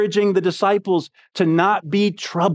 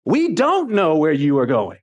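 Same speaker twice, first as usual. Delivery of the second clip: mildly voiced pushback, a touch higher; disagreeing; 7 semitones higher than usual. Thomas pushing back at Jesus, mild disagreeing tone. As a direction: question him bluntly, lightly acted. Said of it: "almost in a disagreeing way".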